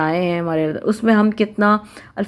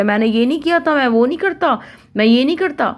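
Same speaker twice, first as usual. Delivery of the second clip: higher-pitched mock child denial; protesting child; 6 semitones higher than usual. Child answering the parent's complaint, higher mock protest. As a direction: whine it like a kid defending himself. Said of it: "بچہ بولے".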